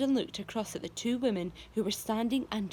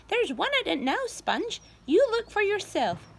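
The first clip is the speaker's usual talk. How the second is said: insistent aunt; 11 semitones higher, 6 dB louder than usual. A narrator's reading. Spiker insists.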